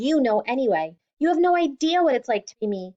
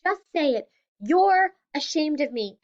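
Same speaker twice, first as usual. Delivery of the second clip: angry shout; 5 semitones higher than usual. Acted. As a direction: lash out at her father. Daughter yelling at father.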